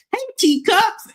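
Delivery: teacups swooping up high; sing-song hey, teacups with teacups rising high; lilting, high-pitched hey, teacups. Shown as a demonstration. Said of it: "Say it with more inflection in your voice".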